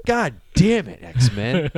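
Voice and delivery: hammed-up parental exasperation; exasperated dad. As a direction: play a dad cursing at his disappointing kid. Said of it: "Like being the dad".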